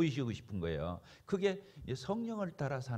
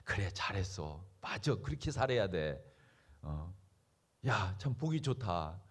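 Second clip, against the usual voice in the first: low, soft and slow approval; pleased, tender praise; 10 semitones lower, 4 dB quieter than usual. Acted. Holy Spirit pleased at a good deed, quiet tender praise. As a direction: approve gently, lingering on the words. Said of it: "성령님이 기뻐하시는 거예요".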